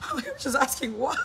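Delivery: laughing protest. Retold or imitated. Playing her childhood self answering mom, laughing protest. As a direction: plead innocence while cracking up.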